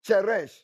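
"cheresh" said CHEH-resh with ch as in church; Hebrew pronunciation. Shown as a demonstration. Preacher naming Hebrew for darkness, careful pronunciation.

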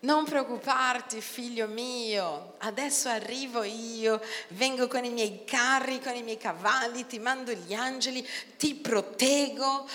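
softly voiced fatherly God; God reassuring. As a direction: comfort him like a father. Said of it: "risposta di Dio che ti dice".

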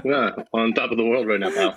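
deadpan fake happiness; sarcastically unemotional. Real, not acted. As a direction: claim joy without putting any feeling in it. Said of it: "you're really emoting that".

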